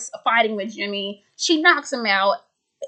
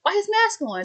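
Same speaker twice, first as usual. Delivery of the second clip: suspicious surprise; 2 semitones higher than usual. Retold or imitated. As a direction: catch something odd and jump on it. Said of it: "He's like".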